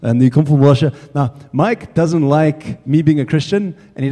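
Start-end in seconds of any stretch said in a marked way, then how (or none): 0.0-0.9 lightly mimicked Russian accent; Russian-accented impression of a mechanic; big Russian voice. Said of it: "He's got a big Russian voice".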